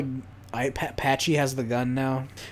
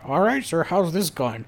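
gun shop clerk; 4 semitones higher, 3 dB louder than usual. Retold or imitated. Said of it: "It's like".

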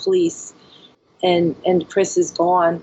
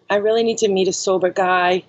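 laughing through words. Real, not acted. Laughs at own confession.

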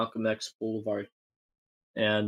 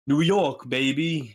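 louder, higher shout of pride; hype cry; 4 semitones higher, 4 dB louder, slower than usual. Acted. Teller cheering for New York, loud excited cry. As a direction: cheer for the city like a hype man. Exclaiming about city.

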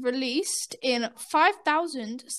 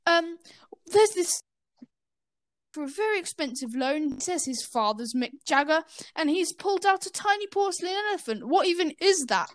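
lightly acted puzzlement, pitch raised at times; confused bank teller; 4 semitones higher than usual. Teller asks her manager about odd collateral, mildly confused. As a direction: play a mildly baffled teller, hesitant at first. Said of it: "Patty Whack's quite confused".

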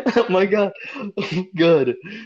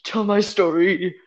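hammed-up last words, higher and halting; dying; 5 semitones higher than usual. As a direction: stammer out dying words, dragging them.

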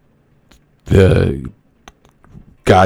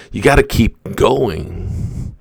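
fired-up shout; 8 semitones higher, slower than usual. Retold or imitated. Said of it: "Eric Thomas goes".

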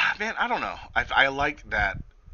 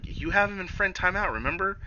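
high mock voice; 9 semitones higher than usual. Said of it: "she's like".

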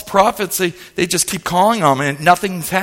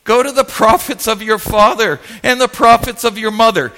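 mildly indignant brush-off; retold prophet's mild sass; with attitude; 3 semitones higher than usual. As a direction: send them away dismissively. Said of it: "Can you hear the attitude here?".

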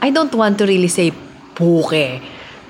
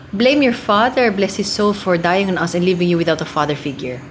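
rushed stage line; fast delivery. Shown as a demonstration. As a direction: rattle it off in a hurry. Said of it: "Ganun kabilis ko kasi diniliver".

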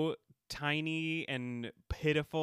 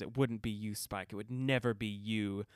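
cold dismissal; 4 semitones lower than usual. Retold or imitated. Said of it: "And she says".

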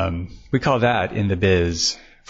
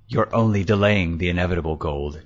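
hissed; 3 semitones lower than usual. Acted. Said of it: "Short hissed".

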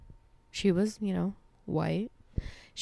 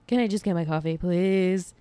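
weary pleading. Acted. Repeats the plea lower.

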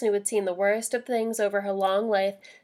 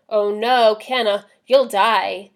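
louder, a cry of alarm; alarmed outburst; 7 dB louder, slower than usual. Acted. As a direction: blurt it out in sudden dread. Alice horrified at climbing plan.

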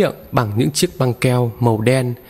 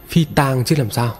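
ordinary delivery

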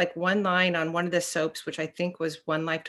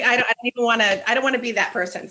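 fast, a bit higher, flustered; flustered protest; 4 semitones higher, 4 dB louder, faster than usual. Retold or imitated. Recoiling from being judged, fast and flustered. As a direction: rush it out in a fluster. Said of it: "I'm like".

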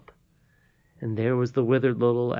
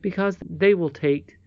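lightly voiced old lady, higher pitched; earnest old lady; 5 semitones higher than usual. Old lady asks Curdie not to join the mockers, earnest and measured. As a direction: explain the request earnestly in a raised voice.

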